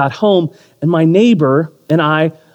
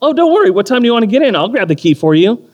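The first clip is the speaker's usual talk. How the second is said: cheerful reassurance; 6 semitones higher, faster than usual. Retold or imitated. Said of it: "I had a response".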